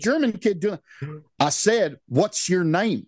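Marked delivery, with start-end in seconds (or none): 1.4-3.1 imitated Southern twang, higher pitched; Southern accent. Bully pressing Arvid for an answer, imitated Southern accent. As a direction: mimic a misplaced Southern accent, pressing the question. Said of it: "is that a Southern accent".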